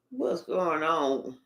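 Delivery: quiet, slow puzzlement; low, soft question. Real, not acted. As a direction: ask it low and under your breath, slowly. First take of repeated question.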